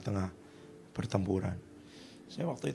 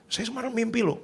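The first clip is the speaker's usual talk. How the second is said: mock pious follower; 10 semitones higher than usual. Mocking spiritual follower.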